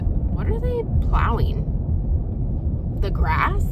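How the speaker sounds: high, slow disbelieving question; incredulous. Real, not acted. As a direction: sound baffled by it. Incredulous at plowing.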